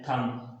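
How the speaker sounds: "थंब" ending on M, no B; silent B. Shown as a demonstration. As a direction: say "थंब" with the final B left silent. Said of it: "बी silent है".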